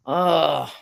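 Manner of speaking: drawn-out "ugh" of reluctant sympathy; imitated groan. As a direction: act out a torn groan. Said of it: "you're just like".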